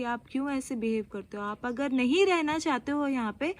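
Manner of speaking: mildly heated, imitating a husband confronting someone; retold confrontation. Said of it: "confront किया उनको".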